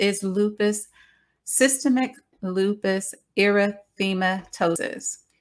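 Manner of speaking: slow, careful, deliberate syllable-by-syllable enunciation. Naming a type of lupus to listeners, said slowly for the tongue. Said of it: "I had to say that slowly".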